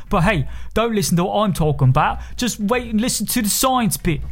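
staged advert dialogue; mock ad helper. Answering the fictitious customer, mock ad acting. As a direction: play the helpful friend in a commercial. Scripted reply in spoof ad.

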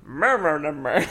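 a hint of grunting through clenched teeth; mock mumble with jaw locked shut. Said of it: "His, his teeth were clenched the fuck shut".

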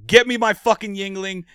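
loud, high mock-bossy orders; bossy demand. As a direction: boss your buddy around for beer, half joking. Joking bossy demand to cohost.

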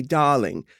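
DARLING said in an affected, drawn-out way. Shown as a demonstration. Guest shows host why the word feels silly, affected darling. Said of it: "it feels so affected to say".

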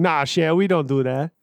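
low-pitched mock Cajun; Cajun accent. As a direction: lightly put on a bad Cajun accent. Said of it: "we can't do a Cajun accent".

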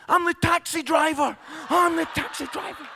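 flustered driver. Retold or imitated. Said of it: "the guy says".

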